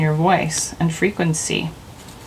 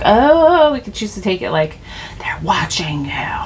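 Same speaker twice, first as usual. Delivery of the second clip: mock suspicion. Imagining someone who feels watched, mock suspicion. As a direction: act out spooked suspicion, sinking to a whisper. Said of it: "like the get the heck outta here energy".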